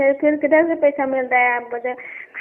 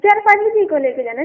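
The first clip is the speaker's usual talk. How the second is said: loud, raised-pitch insistence; too loud; 6 semitones higher, 6 dB louder than usual. Real, not acted. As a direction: push the time across loudly. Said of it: "धीरे से बोल". (ज़ोर से, ऊँची आवाज़ में)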